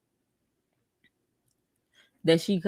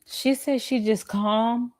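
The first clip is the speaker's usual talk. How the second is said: mocking echo; 3 semitones higher, slower than usual. Echoing "I'm just calm" slowly.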